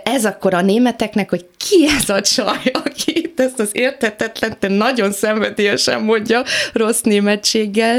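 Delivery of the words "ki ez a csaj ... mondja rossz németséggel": imitating puzzled classmates, pitched up; higher, incredulous mock question; baffled onlookers. Voices baffled Germans' reaction to her.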